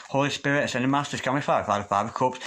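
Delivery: murmured prayer-like invocation to spirit guides. Acted. Tarot reader asks her spirit guides for clarity, prayer-like murmur.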